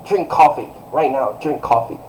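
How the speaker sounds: firm imperative with falling ends; direct order. Shown as a demonstration. Parent giving a kid an order, direct. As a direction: order them to act immediately. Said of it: "giving someone an order".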